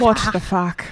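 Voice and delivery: lightly put-on Irish swearing; a hint of a fake Irish accent; mock Irish accent. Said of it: "Irish accent ... say bad words".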